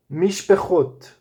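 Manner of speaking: "mishpechot" slowly, syllable by syllable. Shown as a demonstration. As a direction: draw out "mishpechot" for the students. ("mishpechot" bem devagar, sílaba por sílaba)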